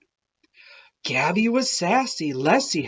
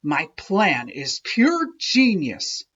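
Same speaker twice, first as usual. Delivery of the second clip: smug; 4 dB louder than usual. Acted. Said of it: "Stu wasn't too humble".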